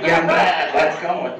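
slow, laughing straggler drawl; lightly mock the homeless guy's voice. Mocking how every homeless guy talks, slow straggler voice. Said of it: "the fucked up straggler voice".

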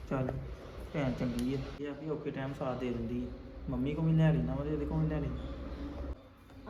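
low, soft muttered aside to himself; quiet aside. Acted. Brother privately praising his sister, softly under his breath. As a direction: keep it under your breath so sister won't hear.

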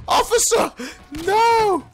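yelling out in alarm; shout. Real, not acted. Teammate killed, calling out.

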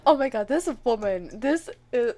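loud, breathless disbelief; excited panic. Real, not acted. Gamer watches the wife chase them, loud panic. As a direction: keep the panic loud and running.

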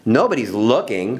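mildly huffy dismissal; understated impatient bully. Acted. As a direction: brush off the objection with a slight huff. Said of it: "huffed Belinda".

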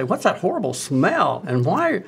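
disgusted surprise. Retold or imitated. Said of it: "people say".

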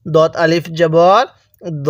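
দ said short with a rounded vowel, not দা; ধীরে, ছোট গোল দ; careful recitation. Shown as a demonstration. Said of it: "কেউ দা পড়বেন না".

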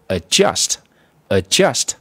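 adjust with JUST stressed, the first syllable light; stress on second syllable. Shown as a demonstration. Teacher shows students how the first word is read, second syllable stressed. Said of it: "重读从第二音节".

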